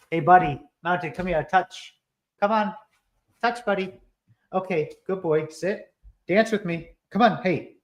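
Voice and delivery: high, coaxing pet voice; talking to the dog. Real, not acted. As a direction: coax the puppy into a trick.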